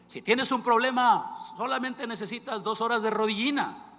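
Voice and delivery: mock fiery sermon quote; famous preacher phrase. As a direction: boom it out like an old-school preacher. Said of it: "la famosa frase".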